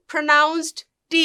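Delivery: very slow, drawn-out T; slow emphasis. Shown as a demonstration. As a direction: stretch it out slowly. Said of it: "আমি আবারও বলছি".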